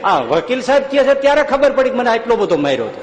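hammed-up crying client; client's fake sob in court; mock wailing. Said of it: "ઓલો અસીલ રોવા માંડ્યો".

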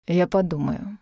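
curt and dry. Acted. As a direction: say it coldly, no warmth. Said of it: "ответил некромант снова сухо".

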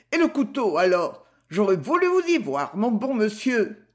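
lightly voiced outraged shopkeeper; outraged butcher's wife. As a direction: huff at the inspector, offended.

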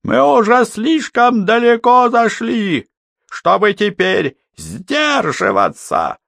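high, loud, slow ending; furious shout. Acted. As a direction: shout him down in fury. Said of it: "прокричал он".

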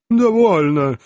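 sharp loud command. Acted. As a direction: declare it grandly. Elf starts his pompous speech.

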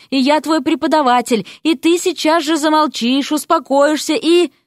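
high, heated scolding, building; angry ordering. A narrator's reading. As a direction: demand silence with authority. Teacher husband orders her quiet.

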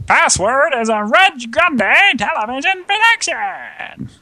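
high, slow game show announcer. Pretend. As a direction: boom it like a TV announcer. Mimics the game show closing announcement.

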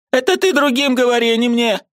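put-on high, pleading old woman's voice; an aunt who can't bear it any longer; distressed old aunt. A narrator's reading. Aunt Marfa pleading with her pale niece, high and anguished.

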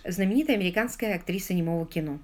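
ordinary delivery, nothing marked

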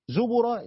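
زبر said slowly as "zubura"; slow u after the ب in زبر; damma on the ب. Shown as a demonstration. Teacher sums up this reading, damma on the ب in زبر. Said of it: "بالضم".

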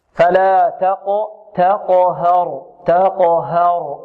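very slow تقهر, thin open "ha" between heavy ق and ر; stretched تقهر with a clean light ه. Shown as a demonstration. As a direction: keep the ه of تقهر light, drawn out. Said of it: "نرقق الهاء".

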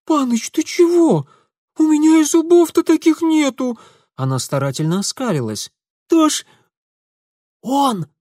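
very high, loud scared protest; frightened girl protesting. Acted. Scared girl protesting to Mitya, very high and loud. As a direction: squeal your innocence.

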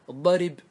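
الضرب said "ad-darib", i after the r; kasra moved back. Shown as a demonstration. Teacher quizzing on transferred vowel, الضرب as "ad-darib". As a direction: put an i on the r in الضرب, ending on b. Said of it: "الكسرة".

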